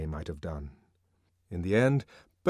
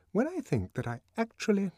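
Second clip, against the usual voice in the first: indignant headmistress; 12 semitones higher than usual. Acted. Headmistress gossiping.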